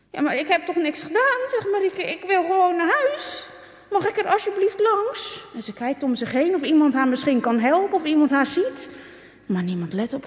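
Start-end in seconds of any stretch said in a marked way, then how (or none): 0.1-5.5 high, timid pleading voice; pleading girl. A narrator's reading. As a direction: beg to be let through.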